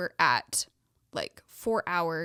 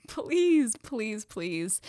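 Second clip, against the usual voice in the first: desperate praying; 4 semitones higher, 5 dB louder, much slower than usual. Retold or imitated. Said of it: "started praying".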